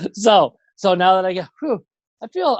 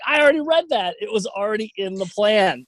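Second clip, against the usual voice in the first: exasperated; 5 semitones higher than usual. Retold or imitated. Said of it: "I'm like".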